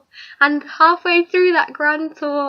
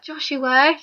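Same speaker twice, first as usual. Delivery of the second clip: whisper-shout. Retold or imitated. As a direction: hiss "Joshua," as a hushed shout. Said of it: "whispered but shouted".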